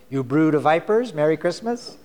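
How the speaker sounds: lightly ironic holiday wish; mock greeting card. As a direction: read it like a cheery card verse. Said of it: "have you ever seen a Christmas card".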